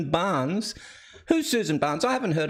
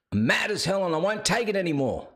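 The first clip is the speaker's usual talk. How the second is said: acted movie outrage; faster than usual. Host re-enacting a movie quote, acted outrage. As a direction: deliver the famous line with mock fury.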